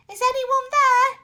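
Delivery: high, loud call into the dark. A narrator's reading. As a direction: call out into the gloom. Calling into the dim room.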